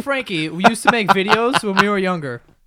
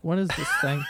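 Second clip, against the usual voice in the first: laughing; 5 dB quieter than usual. Retold or imitated.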